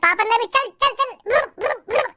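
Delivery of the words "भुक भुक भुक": shooing noises. Retold or imitated. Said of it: "ऐसे, ऐसे करके खूब कोशिश करी".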